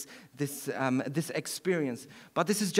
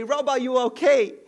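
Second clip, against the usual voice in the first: raised, higher voice of a worried parent through a door; worried parents calling; 8 semitones higher, 7 dB louder than usual. Retold or imitated. Parents knocking on his locked door, calling out in raised worried voice. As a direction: call out gently but urgently, like a parent at the bedroom door. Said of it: "and they'd say".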